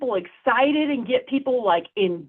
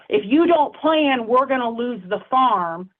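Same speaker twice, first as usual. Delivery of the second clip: catastrophe warning. Shown as a demonstration. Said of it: "catastrophe language".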